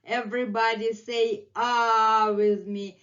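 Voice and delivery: loud bright "Say ah" to everyone; mock cheerful call. Teacher voicing the cat inviting everyone, loud and cheerful. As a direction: invite the class to sing along, loudly. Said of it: "And he's saying".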